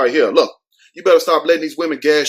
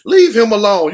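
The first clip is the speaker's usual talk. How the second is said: defending the guy; 5 semitones higher than usual. Pretend. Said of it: "I would've been like".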